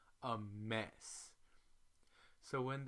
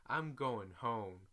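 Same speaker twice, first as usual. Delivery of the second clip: cussing out her travel buddy; going off; 5 dB louder than usual. Retold or imitated. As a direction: tell her off loud and fed up. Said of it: "I start going off".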